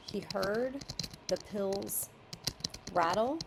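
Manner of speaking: words set out one by one, slowly; slow demo of the edit. Shown as a demonstration. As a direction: read out the changed phrase piece by piece for the author. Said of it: "that's pretty much the only change".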